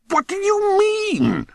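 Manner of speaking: very high, drawn-out cry of frustration; exasperated. A narrator's reading. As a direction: wail it slowly at the top of your pitch. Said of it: "almost clawed the air in his frustration".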